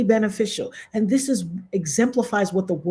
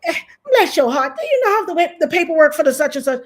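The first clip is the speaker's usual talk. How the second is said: high, sugary put-on coworker voice; sweet on top, poison underneath; imitating the fake-nice coworker; 7 semitones higher, 4 dB louder, faster than usual. Streamer imitating the coworker, high and sugary. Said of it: "she be like".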